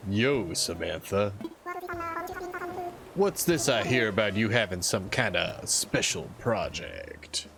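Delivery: lightly voiced macho dude; super Chad voice. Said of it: "I gotta give him a super Chad voice".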